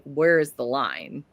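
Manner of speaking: ordinary delivery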